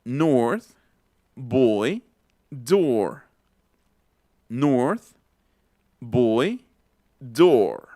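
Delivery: put-on "North, boy, door" held long with an inner O; measured "North, boy, door", O far back. Shown as a demonstration. Teacher has students listen, back O in "North, boy, door". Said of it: "es otra sonoridad".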